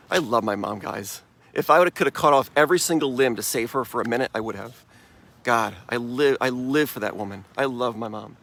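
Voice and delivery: grief pressing the voice down; choked up. Real, not acted. Telling viewers how he loved his late mom, choked up. Remembering his mother's death.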